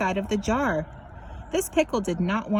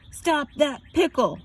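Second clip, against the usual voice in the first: pretzel crying out; 5 semitones higher than usual. A narrator's reading. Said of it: "cried the pretzel".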